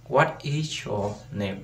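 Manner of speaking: slow careful model question; đọc chậm, rõ từng từ; slow, spelled-out question. Shown as a demonstration. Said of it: "Câu hỏi nha".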